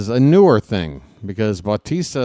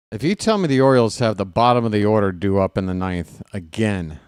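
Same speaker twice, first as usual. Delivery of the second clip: usual speaking voice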